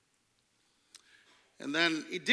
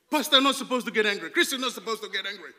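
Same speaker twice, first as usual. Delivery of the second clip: mocking repeat; 7 dB louder, much faster than usual. Pastor mocking the shopkeeper's line.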